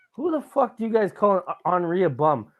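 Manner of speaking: snapping at the rival fans; angry fan yelling at hecklers; angry retort. Retold or imitated.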